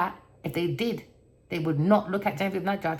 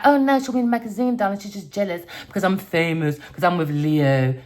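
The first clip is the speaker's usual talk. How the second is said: mock diva; 3 dB louder than usual. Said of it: "she can act like".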